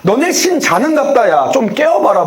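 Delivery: 가볍게 놀리는 말투로, 살짝 흉내 내듯; 상대를 비웃는 듯 툭툭 던지기; 조롱하듯. Retold or imitated. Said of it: "막 이렇게 조롱을 했었어요". (엘리야가 바알 선지자들을 가볍게 놀리는 흉내)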